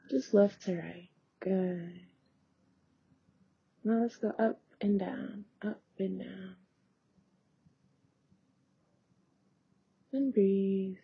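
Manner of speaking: soft, unhurried guidance with long pauses; guided meditation. Real, not acted. Yoga teacher guiding eye exercises, softly meditative. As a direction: gently lead them through it, trailing down quietly.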